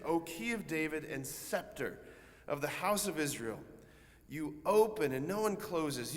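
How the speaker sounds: measured, earnest antiphon reading; prayerful recitation. Acted. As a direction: declaim it as a plea to God.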